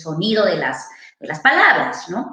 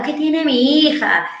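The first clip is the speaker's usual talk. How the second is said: a touch of a worried mother; 5 semitones higher than usual. Retold or imitated. Therapist retelling the worried mother's question, mild worry. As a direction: lightly play the anxious mum. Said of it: "la mamá preocupada".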